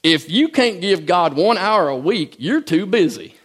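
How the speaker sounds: lightly mocking a radio preacher's accent, slow start; hammed-up preacher accent poking fun; a touch of a mock preacher drawl. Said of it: "I'm making fun of somebody with an accent".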